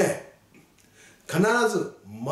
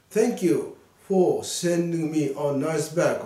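slow model reading; much slower than usual. Shown as a demonstration. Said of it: "リスニングって前から言うんでしょ".

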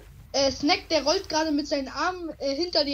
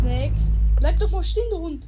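loud call after a friend; 3 semitones higher, 7 dB louder than usual. Real, not acted. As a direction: shout for him to stop. Chasing friend, calling after him. (lautes Hinterherrufen)

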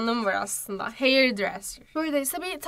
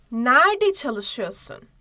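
slow translation; 4 dB louder, much slower than usual. Shown as a demonstration. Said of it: "slow translation for pupils".

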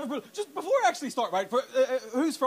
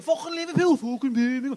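a hint of the sneering bloke, a bit higher; lightly voiced sneer; 6 semitones higher, 4 dB louder than usual. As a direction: toss it off with mild scorn. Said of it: "it's the same thing".

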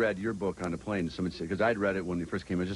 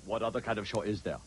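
put-on mystery guest voice; Brian Brunschweiger voice. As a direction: answer in a lightly disguised character voice. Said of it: "I do my Brian Brunschweiger voice".

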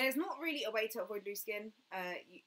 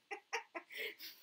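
breathy giggle; 12 semitones higher, 4 dB quieter than usual. Real, not acted. Laughing at own French sound.

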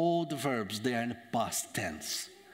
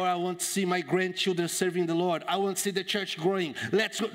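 raised, eager rallying voice; fervent hope; 4 semitones higher than usual. Acted. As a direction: build toward a rousing push. Acts out the dreams that were lost.

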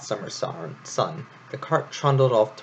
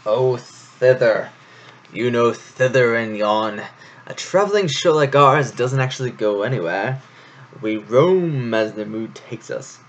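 breezy showman brushing off the question; airy; 2 semitones higher, 5 dB louder than usual. Acted. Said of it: "waved a paw airily".

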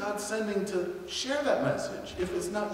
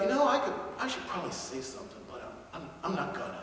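hesitant inner thought; 3 semitones lower, 6 dB quieter, faster than usual. Pretend.

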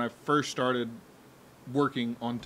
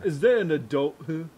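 put-on Louisiana accent; 2 semitones higher, 4 dB louder than usual. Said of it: "He's trying to do a Louisiana accent".

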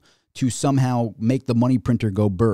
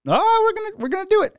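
mock sing-song taunt, pitched much higher; teasing Fed; 4 dB louder, faster than usual. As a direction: dangle it like a teasing bully, up high. Fed teasing the waiting kid.

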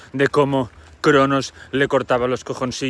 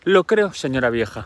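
put-on a proud girl telling the old lady she beats the goddess; proud young girl; 5 semitones higher than usual. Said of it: "Y Aracne dijo".

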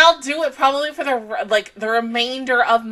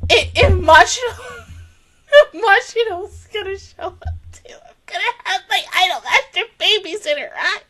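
giddy whisper; 6 semitones higher than usual. Real, not acted. Fan giddy at possible cameos.

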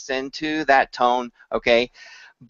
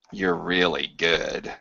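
lower, softer and slow; quiet intimate; 7 semitones lower, 6 dB quieter, slower than usual. Shown as a demonstration. Teacher shows another meaning, hushed praise. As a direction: murmur it close and low. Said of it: "they all have different meaning".

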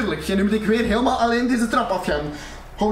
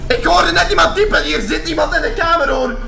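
alarmed; 4 semitones higher, 5 dB louder than usual. Real, not acted. Startled by typing in room.

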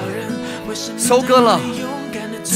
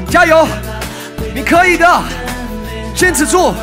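barking gym coach; 2 semitones higher than usual. Real, not acted. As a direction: push them through the last reps. Coach urging class on last set.

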